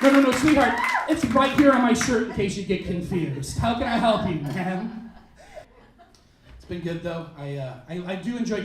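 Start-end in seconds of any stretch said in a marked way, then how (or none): 0.0-5.1 mock sweet condescension. Waitress mocks PC girl.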